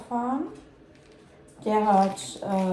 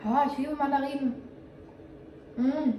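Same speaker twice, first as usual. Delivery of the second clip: delighted; 3 semitones higher than usual. Real, not acted. Tastes the tangerine, delighted.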